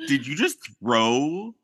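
lightly voiced devil, slow and incredulous; offended devil. Devil protesting salt thrown at his eyes, mock offended. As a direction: draw it out in mock disbelief. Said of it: "the devil's like".

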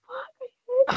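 high whiny complaint; mock whining. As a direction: whine it like you're suffering. Retold misery while running.

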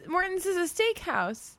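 laughing high and slow; incredulous, through laughter. Real, not acted. Laughing disbelief at Morton.

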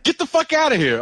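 high-pitched mock astonishment; amazed disbelief. Retelling the stranger's reaction to his name, incredulous. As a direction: imitate someone who can't believe the coincidence.

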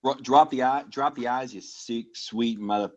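hammed-up East Coast Boston accent. Shown as a demonstration. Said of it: "I can do a pretty good, uh, East Coast, uh, Boston".

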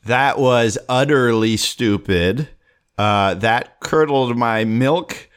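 hammed-up disdain for a riddle; mock insults. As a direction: deliver each insult like a roast. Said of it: "ten seconds to insult it".

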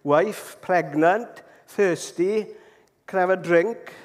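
broken English in a mock Italian accent; halting, lightly imitated Italian-accented English. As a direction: put on an Italian accent, word by word for a foreigner. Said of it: "with an Italian accent".

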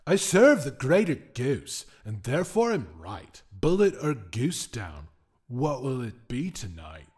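outraged spirit scolding; offended whim. Acted. The whim scolds his captive for swearing, indignant.

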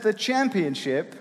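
slight, badly faked German accent; slow, half-slipping into a poor German accent; a clumsy hint of a German accent. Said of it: "I might be doing a German accent".

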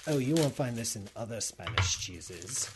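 put-on haughty cheese snob with a French accent; snobby French accent. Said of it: "had a French accent".

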